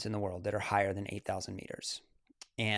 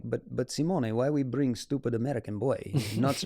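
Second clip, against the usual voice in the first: lightly put-on Russian accent; mock Russian accent. Russian climber questioning Simone about the American, lightly imitated Russian accent. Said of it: "he's Russian".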